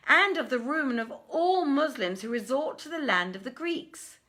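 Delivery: high, loud, urgent merchant voices pleading. Acted. Merchants complain to the king of robbery, high and loud pleading.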